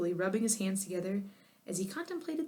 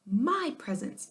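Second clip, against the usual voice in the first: slow, raised wail; yelled wail; 6 semitones higher, slower than usual. A narrator's reading. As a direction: moan it out again. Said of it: "yelled Irwin".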